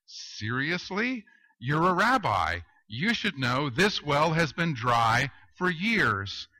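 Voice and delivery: lightly voiced, incredulous woman at the well; mildly mock-exasperated reply; bewildered woman. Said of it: "looks at him bewildered and says".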